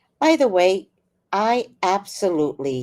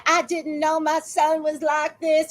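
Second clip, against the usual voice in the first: mocking the mother; 6 semitones higher than usual. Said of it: "his mama said".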